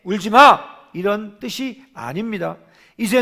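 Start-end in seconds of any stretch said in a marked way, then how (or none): 0.0-0.7 a cold, harsh, louder "울지 마!", snapped at the listener; cold harsh don't cry. Shown as a demonstration. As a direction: say "울지 마!" as a curt, cold order, much louder. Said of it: "이 말은 냉정하게".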